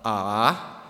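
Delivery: ah dipping down then back up; ah falls low then rises; third tone. Shown as a demonstration. Teaching the class the dipping third tone. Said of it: "goes down and then up".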